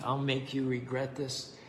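quiet threat through clenched teeth. Acted. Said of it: "muttered through clenched teeth".

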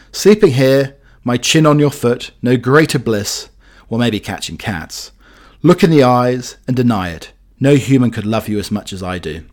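lightly voiced dog's-eye poem, recited; poem reading. Host reads a dog's poem to listeners, recited. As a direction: recite it as the proud family dog.

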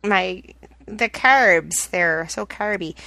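slow, exaggerated Midwestern accent on "carby". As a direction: lean into the Midwestern vowels. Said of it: "my Midwestern accent comes out".

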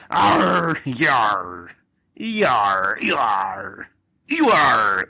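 drawn-out pirate yars; playful pirate exclamations. Acted. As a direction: growl out pirate battle cries. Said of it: "the Red Ranger as a pirate".

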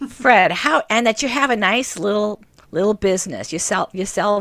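put-on loud, ragged old aunt voice; rough voice fumbling for a name. Aunt continues in her voice.

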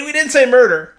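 high, pointed mock denial; smug denial. Mocking the prosecutor's denial with a high pointed voice. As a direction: lean on say with a smirk. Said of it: "You know, but he".

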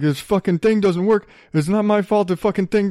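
mock indignant griping; retold snippy cussing. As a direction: imitate a snippy man cussing, mildly heated. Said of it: "he starts cussing me out".

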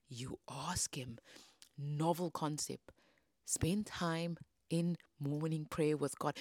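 slow, dry answer; slow, pointed understatement; deadpan obviousness. Real, not acted. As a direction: spell out the obvious, word by word.

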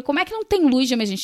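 quick, indignant retold complaint; retold annoyance. Guest retelling her complaint in the dark stairwell, annoyed. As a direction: rush out a miffed question. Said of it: "Eu já fiquei puta".

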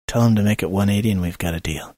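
low, quick and hushed aside; confidential, softened undertone; acted whisper. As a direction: murmur it fast to a companion. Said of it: "I lean over to Azo and I whisper".

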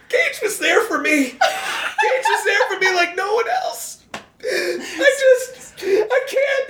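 high-pitched, hammed-up sobbing lament; mock wailing. Actor grieving dead puppies on camera, hammed-up wailing. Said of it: "I run off wailing".

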